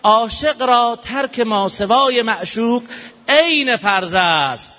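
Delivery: slow, measured reading of a sacred prayer; slow solemn recitation. Retold or imitated. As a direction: draw out each word like a devotional verse.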